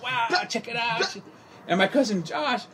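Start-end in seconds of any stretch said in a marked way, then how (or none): 0.0-1.2 high, slow, wide-eyed "wow"; awed. Retold or imitated. Cousin watching the gunfight, slow high awed voice. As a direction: play the naive kid amazed by a shootout. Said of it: "sitting there going".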